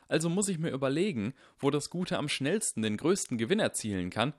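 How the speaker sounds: put-on earnest boy insisting he's right; voiced young Harry.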